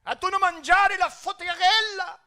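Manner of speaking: put-on high, loud, drawn-out Italian accent; hammed-up Italian food enthusiast, pitched high; imitated Italian. Locals urging a visitor to eat sfogliatella, imitated Italian. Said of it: "Desde que aterricé a Italia, todos me hablaban".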